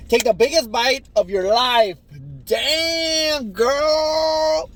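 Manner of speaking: loud, high excited cheering; hype cheer. Real, not acted. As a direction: hype her up loudly. Hyping friend's big bite.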